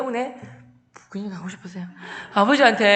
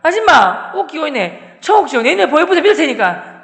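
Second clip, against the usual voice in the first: loud, higher-pitched jeering challenge; heated shouting; 5 semitones higher, 7 dB louder than usual. Retold or imitated. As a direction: challenge the teacher at full volume. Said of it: "열받아가지고 화음 막 지른 거예요". (열받아서 고함치며 따지기)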